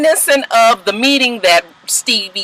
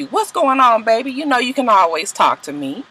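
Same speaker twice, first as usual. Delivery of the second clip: smooth comforting; 3 dB quieter than usual. Retold or imitated. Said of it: "Stevie J to the rescue".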